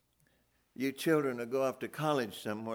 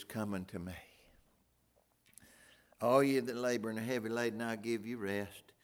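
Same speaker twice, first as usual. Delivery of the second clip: tender invitation. Acted. Voicing Jesus' invitation.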